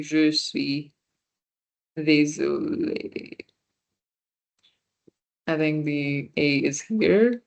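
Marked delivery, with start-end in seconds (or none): 0.0-3.4 slow model phrase. Shown as a demonstration. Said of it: "sorry, I don't have my accents on, but it would be".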